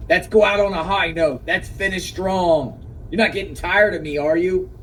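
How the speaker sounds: lightly voiced coaxing boss; a hint of a so-called pep talk; mock pep talk. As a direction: imitate a man egging her on. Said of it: "giving her this so-called pep talk".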